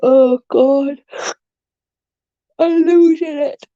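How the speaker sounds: high, loud, exasperated cry; half laughing at her own frazzled state; losing it. Real, not acted. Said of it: "I'm losing my dang mind".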